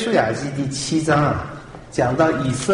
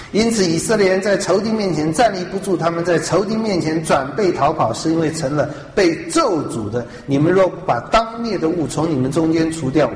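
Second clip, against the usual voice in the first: raised, commanding divine rebuke; voice of God; 4 semitones higher than usual. Retold or imitated. Preacher voicing God rebuking weeping Joshua, raised and commanding. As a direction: boom it out like God scolding Joshua. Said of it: "然后耶和华就对约书亚说".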